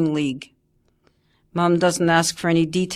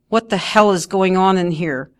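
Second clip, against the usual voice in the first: demanding; 4 dB louder than usual. Acted. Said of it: "Mum demands".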